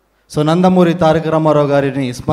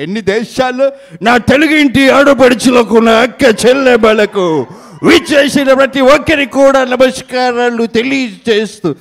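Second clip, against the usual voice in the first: mimicked comic politician; 3 semitones higher than usual. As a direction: demand an award like a boisterous leader. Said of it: "play for mimicry video".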